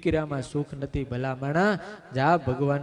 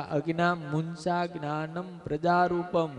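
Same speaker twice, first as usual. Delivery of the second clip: scolding saint; 3 semitones higher than usual. Retold or imitated. Saint rebukes the Brahmin.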